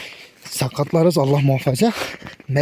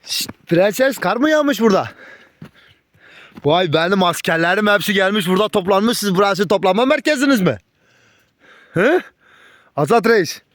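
cooing to dogs; 5 semitones higher than usual. Real, not acted. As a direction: croon to the dogs like to little ones. (köpeklere tatlı, ince sesle sevgi konuşması)

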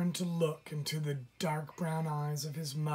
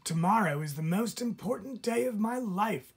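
higher, bright chirping little bird; chirpy baby bird; 7 semitones higher, 4 dB louder than usual. Acted. Baby chickadee tells the fawn about its big day, chirping. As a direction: chirp it out, bursting with pride. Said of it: "chirped the baby chickadee".

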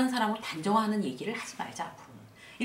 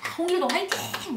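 rooting cheer; 8 semitones higher, 3 dB louder than usual. Acted. New employee cheering herself on first day, rallying cry. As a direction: act out cheering yourself on. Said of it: "막 이렇게 응원하는 거죠".

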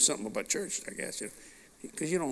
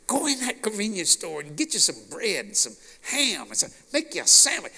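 cussing angel; 5 semitones higher than usual. Retold or imitated. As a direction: bless him and curse in one breath. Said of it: "He's a cussing angel".

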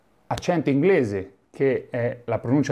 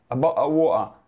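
Londoner repeating. Retold or imitated. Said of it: "la prima volta che io ascoltai".

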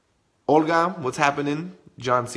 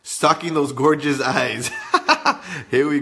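laughing tease; 5 dB louder, slower than usual. Real, not acted. Teasing a viewer, laughing.

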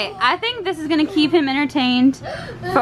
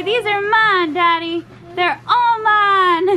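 voicing the baby; 3 semitones higher than usual. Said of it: "Tell Daddy, say".

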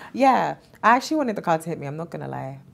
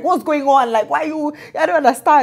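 confused call to mom; 8 semitones higher, 7 dB louder than usual. Retold or imitated. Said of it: "I now calling my mom, parent, like".

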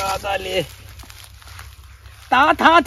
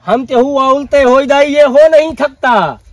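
dramatic punchy hero lines; 3 semitones higher, 4 dB louder than usual. Acted. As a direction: deliver it like a Bollywood hero. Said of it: "ये तो हम फिल्मी dialogue दिया".

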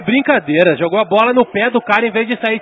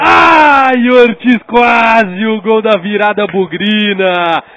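excited near-miss; 4 dB louder, slower than usual. Real, not acted.

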